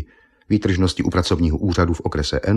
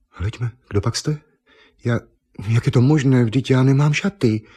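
higher, lightly voiced surprised girl; a hint of a flustered young woman finding herself naked; startled young woman; 6 semitones higher than usual. Naked Eva startled at the painter, a touch of flustered surprise.

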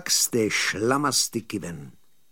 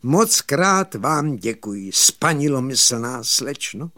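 lightly acted gallant gratitude; contented thanks. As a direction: draw out the flowery thanks with mild satisfaction. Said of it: "odvětil spokojeně Krutibrko".

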